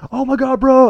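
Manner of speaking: very high, excited cheer; mock celebration. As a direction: crew rallying round the prank victim. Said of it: "everyone's, like, rallying around, going".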